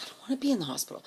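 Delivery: high rushed complaint; whiny protest. Retold or imitated. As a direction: whine it like a kid refusing. Dragged into hospital work, protesting.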